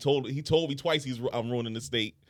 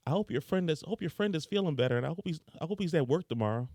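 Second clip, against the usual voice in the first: put-on child's voice; 6 semitones higher than usual. Six-year-old daughter voiced.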